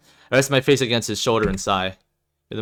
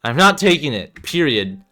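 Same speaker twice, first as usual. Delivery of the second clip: stubborn; 4 semitones higher, 4 dB louder than usual. Acted. Refusing medication, arms crossed.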